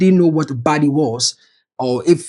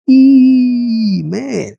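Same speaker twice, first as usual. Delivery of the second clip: shocked exclamation; 6 semitones higher, 3 dB louder than usual. Real, not acted. Reacting to insulting tweet.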